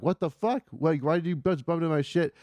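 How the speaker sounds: high-pitched mock yell, little added volume; indignant retold outburst. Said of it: "I started yelling at him".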